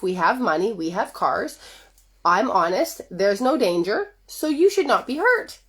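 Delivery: lightly voiced patronizing reassurance; a hint of a husband calming his wife; mock soothing husband. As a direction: talk her down with a sweet honey. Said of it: "He doesn't say it nicely like that".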